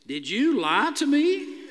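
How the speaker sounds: a hint of a stern Amish host; stern question. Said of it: "looked me in the eye and asked".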